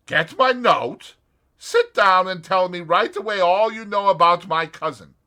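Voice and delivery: put-on a light American accent, straight to business. A narrator's reading. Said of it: "unmistakably an American".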